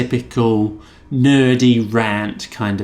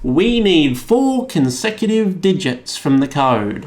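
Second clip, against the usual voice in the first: higher, slow put-on agent voice refusing; mock agent refusal; 5 semitones higher, slower than usual. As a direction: drag out no can redeem like a chirpy refusal. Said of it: "he's like".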